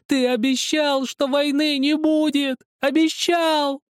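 put-on high, loud, slow child's scream; boy screaming. A narrator's reading. Zakhar beats Helmut's chest and screams at him, high and loud. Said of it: "вдруг закричал".

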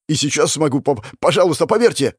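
stammering plea rising in pitch; desperate pleading. Acted. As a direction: beg to be believed, voice climbing. Pleads to be believed.

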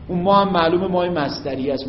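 ordinary delivery

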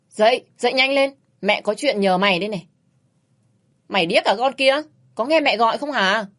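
a touch of a shrill mother yelling her awake; loud scolding mother. Acted. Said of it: "Tiếng của mẹ oang oàng bên tai".

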